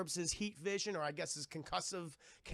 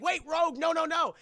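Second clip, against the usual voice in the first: loud, high, urgent acted call; calling after someone; 9 semitones higher, 10 dB louder than usual. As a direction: call out to stop a runaway. Calling after runaway in retold scene.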